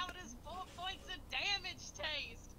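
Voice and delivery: drawn-out smug taunt; slow gloating taunt. Acted. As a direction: gloat over the hit, slowly.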